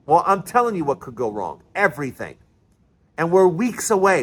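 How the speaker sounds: usual speaking voice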